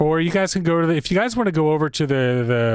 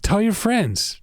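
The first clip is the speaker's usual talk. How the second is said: shopkeeper voice; 7 semitones higher, slower than usual. Acted. Shopkeeper farewell to players.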